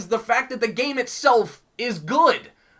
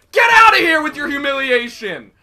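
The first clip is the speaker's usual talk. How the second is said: taunting shout; 7 dB louder than usual. Real, not acted. Taunting enemy while playing.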